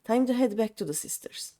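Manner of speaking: lightly voiced swaggering pirate boss; a hint of a rough sea captain; gruff pirate captain. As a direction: play the cocky pirate, pleased with the raid. Reads the pirate captain's lines aloud.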